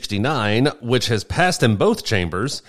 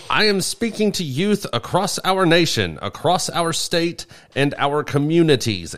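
mock official quote; 7 semitones higher than usual.

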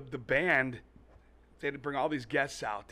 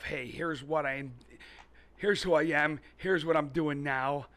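slow, louder TV ad pitch; commercial pitch voice; 3 dB louder, slower than usual. Pretend. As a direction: sell yourself like a late-night ad. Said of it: "I'll probably do a commercial".

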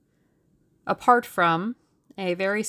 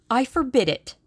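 loud, raised, emphatic ban; dictatorial; 7 semitones higher, 7 dB louder than usual. A narrator's reading. Suitor forbidding the match, dictatorial. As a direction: forbid it like an order.

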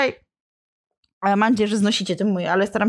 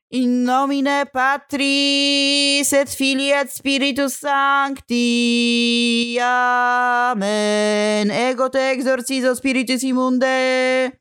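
slow, chanted Latin rite; solemn Latin exorcism; 4 semitones higher, much slower than usual. Acted. Father Piotr exorcising the demon, slow solemn chant. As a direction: intone it like a priest casting out evil.

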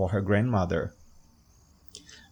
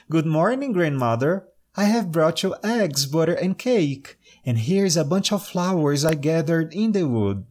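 put-on high, cheerful little girl; bright young girl greeting grandma; 5 semitones higher than usual.

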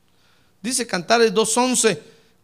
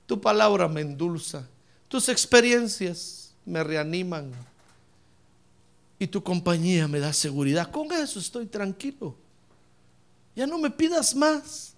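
contented prayer; 4 semitones lower, 4 dB quieter than usual. Acted. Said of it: "Como para que nosotros digamos".

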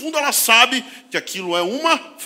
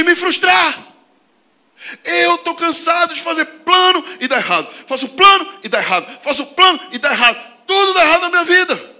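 loud, high frustrated outburst at God; loud, slow, exasperated complaint; indignant; 9 semitones higher, 7 dB louder than usual. Retold or imitated. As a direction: cry out to God, fed up. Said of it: "assim, indignado".

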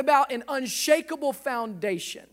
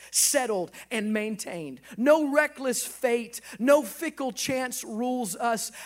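quoting Spurgeon. Acted. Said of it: "I'll paraphrase what he said".

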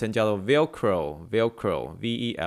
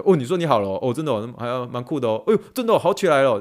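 rising, louder teasing delight; playful exaggerated cheer; 2 semitones higher, 4 dB louder than usual. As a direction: ham it up for an American patient. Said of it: "对美国人我都可以这样".

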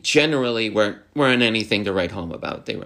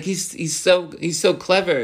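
mock admiration; 8 semitones higher than usual. Imitating admiring fans of bad characters.

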